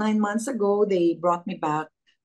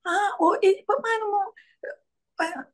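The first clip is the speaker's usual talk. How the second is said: flustered fan; 6 semitones higher than usual. Retold or imitated.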